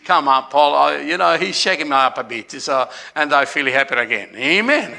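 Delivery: ordinary talk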